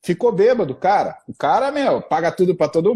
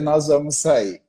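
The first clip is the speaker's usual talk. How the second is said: lower, settled statement; firm confirmation; 3 semitones lower, slower than usual. Retold or imitated. Husband confirms to his wife that they are going out, low and firm. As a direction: close the question, it's decided.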